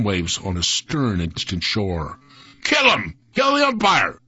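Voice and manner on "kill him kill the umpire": high, sharp cry from the stands; heckler's shout. A narrator's reading. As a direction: yell it like an outraged fan. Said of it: "shouted someone from the stand".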